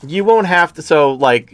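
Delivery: ordinary talk, nothing marked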